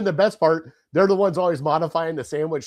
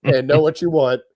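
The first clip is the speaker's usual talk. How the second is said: louder, exasperated imagined yelling; mock rant; 6 dB louder than usual. Imagined rant at slow family.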